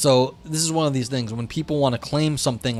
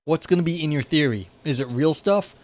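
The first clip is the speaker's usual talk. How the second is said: casual paraphrase voice. Retold or imitated. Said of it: "basically it's saying".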